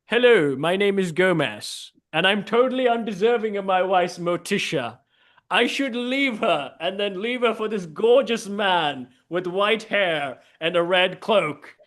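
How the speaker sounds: mock-proud self-pity as a put-on Gomez; Gomez impression. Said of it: "impression of the world's worst, uh, Addams family member".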